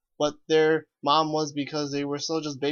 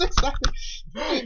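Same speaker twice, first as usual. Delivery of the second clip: mock author voice; 9 semitones higher, much slower than usual. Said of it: "It's like".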